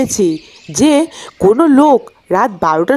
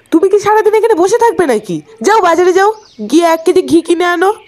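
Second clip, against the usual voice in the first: quick, higher, pushy scolding of a lazy husband; wife nagging husband to fetch ghee, quick impatient scolding; 3 semitones higher, faster than usual. Acted. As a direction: hurry him out the door, nagging fast.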